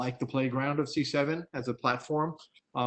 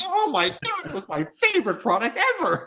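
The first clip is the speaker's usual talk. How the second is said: much higher, louder hammed-up gushing; mock gushing fan; 13 semitones higher, 5 dB louder than usual. Fans after the product was discontinued, in a high, loud mock gush. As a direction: overplay a customer mourning a lost favorite.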